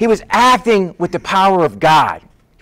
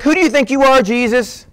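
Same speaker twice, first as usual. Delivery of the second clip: affronted challenge; 6 semitones higher than usual. Acted. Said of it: "They're angry at him".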